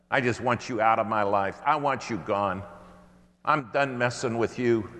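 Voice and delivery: hammed-up exasperated rant, pushing the words out; fed-up complaint. Fed-up spouse voiced in sermon.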